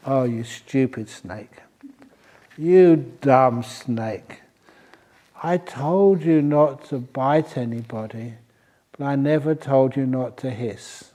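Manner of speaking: slow, fond teacher's reproach; slow, mild "you dumb snake"; gentle scolding. Acted. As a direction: chide him slowly, like a patient elder. Holy snake scolds bad snake.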